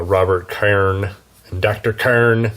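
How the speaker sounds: names drawled in a pirate voice. Acted. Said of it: "it's really hard not to say it like a pirate".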